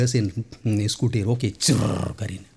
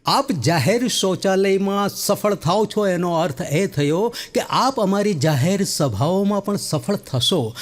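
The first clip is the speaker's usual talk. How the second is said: mock politician; 5 semitones higher, slower than usual. Party worker's formal welcome.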